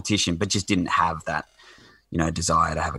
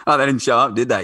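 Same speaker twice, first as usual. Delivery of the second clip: imitating country bloke; 4 semitones higher, 4 dB louder, faster than usual. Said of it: "That's exactly like".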